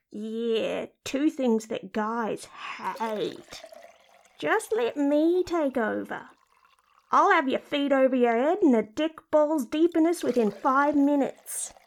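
scoff, then take charge lewdly; crude, swaggering character voice; brazen talking-vagina character. Acted. Crude talking body part.

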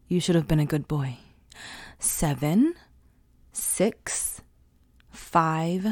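menacing countdown. Acted. Counting down a threat.

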